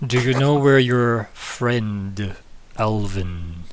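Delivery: slow, deliberate regal voice; a king questioning, slowly; slow, stern king voice. Acted.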